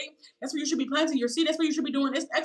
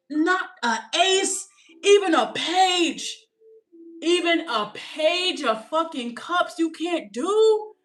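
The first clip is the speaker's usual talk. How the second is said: slow, louder disbelief; incredulous; 4 semitones higher, 4 dB louder, much slower than usual. Real, not acted. Mocking the partner who can't give even a little, slow incredulity. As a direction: drag it out in disbelief.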